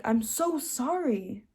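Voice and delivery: slow, drawn-out apology, lightly acted; retold heartfelt apology. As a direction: draw out a retold, heartfelt sorry. Retold tearful apology to God.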